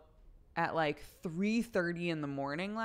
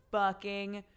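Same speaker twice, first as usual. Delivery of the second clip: laughing; 5 semitones higher, 9 dB louder, much slower than usual. Real, not acted. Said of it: "laughing retelling".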